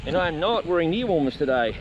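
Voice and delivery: loud, lifted, delighted; excited. Real, not acted. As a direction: gush about the perfect day. Delighted by the weather.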